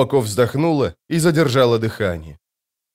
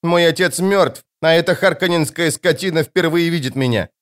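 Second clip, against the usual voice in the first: mild anger; 5 semitones higher than usual. Acted. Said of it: "сердито сказала девочка".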